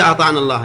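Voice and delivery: أطعنا with the final alif silent, run straight into الله; alif dropped in speech. Shown as a demonstration. Teacher showing students the alif is written but not pronounced. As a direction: say أطعنا الله as one flow, the alif unspoken. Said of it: "الألف موجودة خطا، لكن في اللفظ ما تنطق بها".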